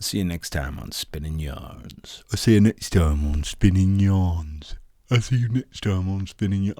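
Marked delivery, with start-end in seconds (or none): 2.3-6.8 hammed-up sign-off. Shown as a demonstration. Trying sign-off voices.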